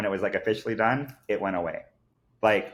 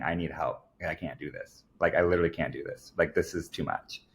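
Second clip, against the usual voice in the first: retold desperate plea; 3 semitones lower, 4 dB quieter than usual. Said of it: "crying out to God".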